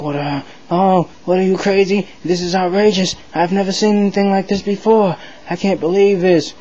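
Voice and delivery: a scandalized congressman squawking in disbelief; outraged shock. Acted. Congressmen reacting to the force-feeding, high outraged sputter. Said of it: "they're upset".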